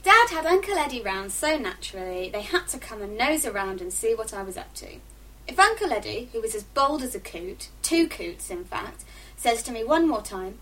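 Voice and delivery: expressive first-person story reading; book reading. A narrator's reading. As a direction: read it as a teenage diary narrator.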